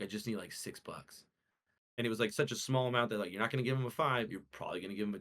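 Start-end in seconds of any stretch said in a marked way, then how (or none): 0.0-1.2 fading to a soft, breathy mock plea; imitating a beggar, trailing off into near-silence; pitiful mumble. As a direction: mimic the scammer's small pathetic ask. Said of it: "he's like".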